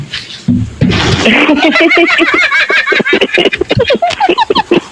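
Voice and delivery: long, very high laughing fit; real, squealing high laugh that keeps going; hysterical laughter. Real, not acted. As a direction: burst out laughing at an absurd headline. Reaction to absurd nosebleed headline.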